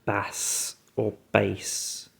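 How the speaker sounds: slow "Bass or bass.", first like the fish, then like the low voice; trying both sounds of "Bass or bass." slowly; two pronunciations. Shown as a demonstration. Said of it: "they've just got two different pronunciations".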